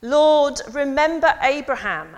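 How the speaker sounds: high, loud priestly cry to the crowd; loud priest call. Acted. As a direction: call it out to a packed temple. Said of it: "The priest would say".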